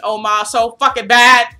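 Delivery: retold fan scream. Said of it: "I was screaming".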